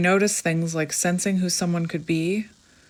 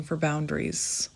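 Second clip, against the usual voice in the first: whisper; 6 dB quieter than usual. Real, not acted. Unvoiced ending.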